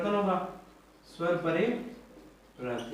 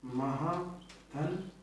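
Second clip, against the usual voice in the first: drawn-out syllables; 9 dB quieter, much slower than usual. Shown as a demonstration. Teacher to students, stretching out महाधन very slowly. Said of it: "teacher spells out the word".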